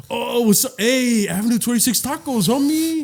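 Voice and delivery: put-on stereotyped Chicano accent. Imitating people greeting a shaved-head Mexican, mock Chicano accent. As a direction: put on a cholo accent, pitch climbing at the end. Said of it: "when they talk to you".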